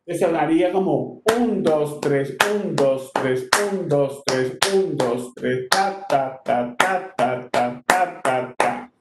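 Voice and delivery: counting un, dos, tres with "un" pushed and "tres" falling away; accent on the first beat. Shown as a demonstration. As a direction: beat out triplets, leaning on each "un" then "ta". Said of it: "el acento va en la primera".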